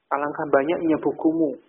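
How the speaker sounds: "Alangkah banyaknya bukumu" told, not asked; informing, exclamatory intonation. Shown as a demonstration. Teacher contrasting telling with asking, exclamatory tune on "Alangkah banyaknya bukumu". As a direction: remark on how many, no question lift on "bukumu". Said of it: "ketika memberitahukan".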